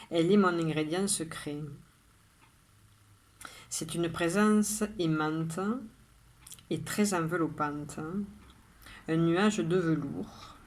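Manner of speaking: measured poem reading with long pauses after each line; poem recitation. Acted. Rereads the poem aloud.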